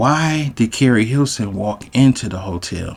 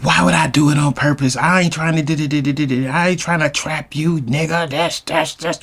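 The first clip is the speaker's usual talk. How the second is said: higher, fast defensive rant, lightly mimicked; indignant girlfriend; 5 semitones higher than usual. Girlfriend denying she's trapping him, mock indignant. Girlfriend's retort to accusation, acted.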